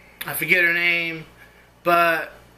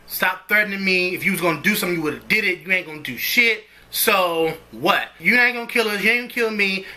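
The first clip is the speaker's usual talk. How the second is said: cool, defiant challenge, lightly voiced; cool defiance. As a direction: dare him to do it, cool and steady. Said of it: "The way I said it was so much cooler".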